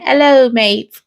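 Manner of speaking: hammed-up British greeting, half laughing; bad British accent. Greeting UK viewers in a joking British accent. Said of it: "I do a g-, bad, um, European accent".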